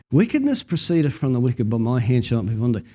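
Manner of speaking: solemn archaic scripture recital; King James Bible reading. Shown as a demonstration. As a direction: read the old proverb with reverence. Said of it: "in the old King James".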